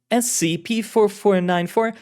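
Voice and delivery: unsure agent reading the code; bewildered agent. Acted. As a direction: say it hesitantly, puzzled. Carlotta reads designation.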